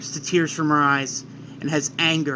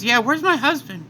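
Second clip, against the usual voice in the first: Chi-Chi; 9 semitones higher than usual. Acted. Chi-Chi asking about her husband, high and worried. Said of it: "Chi-Chi says".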